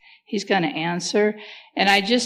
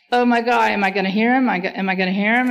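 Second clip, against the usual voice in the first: mildly panicked, rushed and raised; freaked out; 3 semitones higher, 4 dB louder, much faster than usual. Acted. Imagining a nervous believer put on the spot to hear God, freaked out. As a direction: play up anxious fretting, words tumbling out. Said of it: "you're so freaked out and fearful".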